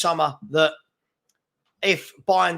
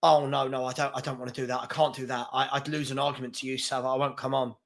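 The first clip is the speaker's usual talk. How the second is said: softer, whiny mock of a scared troll; cowardly troll; 4 semitones lower, 5 dB quieter than usual. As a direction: whimper out of the challenge like a coward. Mocking troll backing out.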